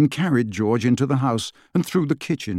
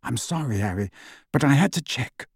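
terse; 4 dB quieter than usual. Acted. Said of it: "said Lupin tersely".

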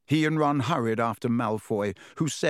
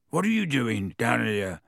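startled question, peaking early then falling; mildly incredulous, in character; surprised. A narrator's reading. Boy running into his brother unexpectedly, surprised. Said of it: "said Ron in surprise".

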